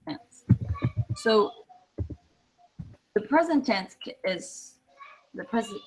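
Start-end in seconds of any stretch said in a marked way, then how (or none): 0.0-0.5 slow, careful English example; slow teacher demo; slow model answer. Shown as a demonstration. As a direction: spell out "planting" slowly. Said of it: "I say".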